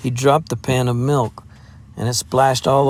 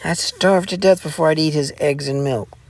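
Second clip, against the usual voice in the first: indignant; 7 semitones higher than usual. A narrator's reading. Jeannie furious, flounces off.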